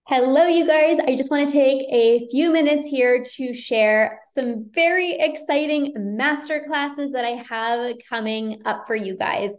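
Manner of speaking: cheerful sponsor-style announcement; ad read. Acted. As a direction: pitch the masterclasses to the viewers. Ad read for masterclasses.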